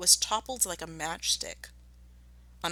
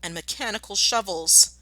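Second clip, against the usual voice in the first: alarmed shout; 2 semitones higher, 5 dB louder than usual. Acted. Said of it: "shouted Mister Fox".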